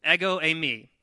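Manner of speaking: "Ego eimi" repeated loudly as EGG-oh ay-MEE; pronunciation demo. Shown as a demonstration. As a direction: model "Ego eimi" firmly, eimi like Amy with second-syllable stress. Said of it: "if you accent the second syllable".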